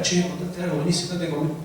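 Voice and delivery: a hint of a churchgoer coaxing a friend quietly; hushed invitation. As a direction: lean in and murmur the invite. Church member inviting someone close.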